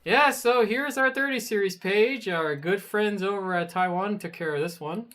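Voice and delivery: high, sing-song fake presenter politeness; maliciously compliant. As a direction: present it with pointed, put-on pleasantness. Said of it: "Just maliciously complying with it".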